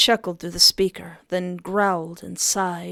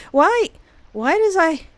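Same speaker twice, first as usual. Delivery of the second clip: flustered laughing; 10 semitones higher, 7 dB louder than usual. Real, not acted. Flustered reaction.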